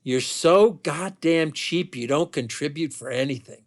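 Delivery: cutting, disrespectful. Retold or imitated. Wife belittles husband over money, retold as cutting disrespect. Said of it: "undercuttingly and disrespectfully says".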